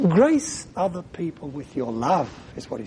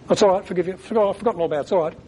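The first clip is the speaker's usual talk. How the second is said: quick, higher, brushing it off; hollow brush-off; 4 semitones higher, much faster than usual. Shown as a demonstration. Preacher showing forgiveness that isn't meant: hasty, dismissive. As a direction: hurry through like it doesn't matter. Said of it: "If I said it like that".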